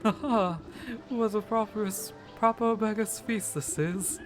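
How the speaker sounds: a hint of a gleeful old spirit; old man voice.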